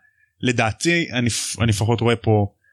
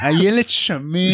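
mock emphasis; 5 semitones higher, much slower than usual. Mocking Hagrid's fat remark.

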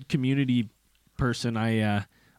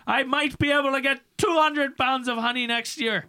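a hint of a country beekeeper; imitating a hillbilly beekeeper at a town hearing; 13 semitones higher than usual. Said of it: "He's like".

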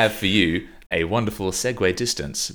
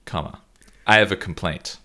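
lightly voiced well-off white guy, a touch louder; mock posh reading of the letter; hint of a smug well-off man; Jared impression; 3 semitones higher, 5 dB louder than usual. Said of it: "do my best Jared accent".

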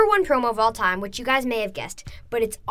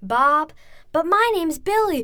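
higher, louder mock dialogue in The Rock's voice; imitating The Rock; 6 semitones higher, 5 dB louder, slower than usual. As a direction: bounce between the two voices, getting louder. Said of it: "then he goes".

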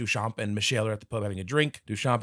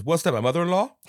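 mock quip; 8 semitones higher, 7 dB louder than usual. King's joke line.

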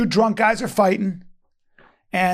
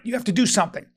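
ordinary talk

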